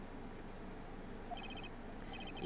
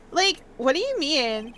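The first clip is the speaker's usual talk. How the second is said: put-on Valley Girl accent. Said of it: "do a Valley Girl accent".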